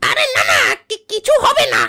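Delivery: laughing reassurance. Acted. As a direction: laugh away the goose's fear. Assistant laughs off worry. (হেসে জোর গলায় আশ্বাস)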